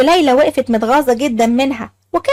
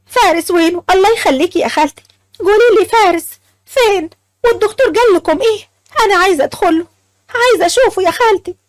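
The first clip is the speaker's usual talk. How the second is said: anxious pleading; 5 semitones higher than usual. Acted. Laila begging mother-in-law for news.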